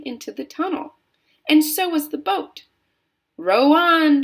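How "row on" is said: high, drawn-out rallying shout. A narrator's reading. Wonka urges on the rowers, shouting. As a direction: call out the order at full voice. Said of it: "shouted Mister Wonka".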